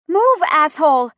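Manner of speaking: high, loud furious shout. A narrator's reading. Chrissy in labor yells at SUV, shouting. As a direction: shout it at the other driver. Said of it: "Chrissy shouts".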